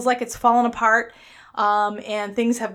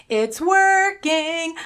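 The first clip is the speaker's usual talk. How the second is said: excited repeat; 6 semitones higher, much slower than usual. Real, not acted.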